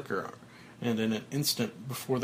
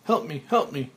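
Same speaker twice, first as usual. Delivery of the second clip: whispering to himself; 6 semitones higher than usual. A narrator's reading. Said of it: "Whispering to himself".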